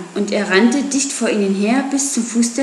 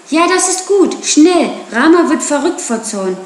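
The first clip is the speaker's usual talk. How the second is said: high, loud urgent calls; urgent shout; 6 semitones higher, 4 dB louder than usual. Acted. Mowgli shouting to Akela in the stampede, urgent. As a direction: shout the order fast.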